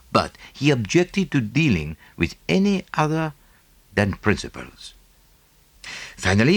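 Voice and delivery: a lightly voiced fussy Belgian detective; Poirot, French accent. Poirot begins the tale.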